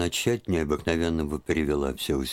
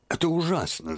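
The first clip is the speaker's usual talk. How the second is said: put-on high, strained old woman's voice; an old aunt who can bear it no longer; distressed old aunt; 12 semitones higher than usual. A narrator's reading. Aunt bursting out to Liza in distress. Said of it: "заговорила она".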